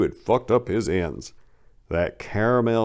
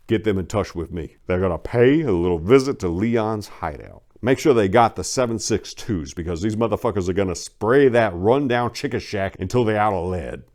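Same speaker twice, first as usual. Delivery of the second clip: gang boss orders. Acted. Boss tells his henchman the plan, lightly voiced menace. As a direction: give the orders like a kingpin.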